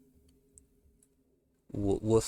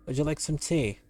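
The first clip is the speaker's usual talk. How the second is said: wolf; 6 semitones higher than usual. Acted. Wolf in comic reading.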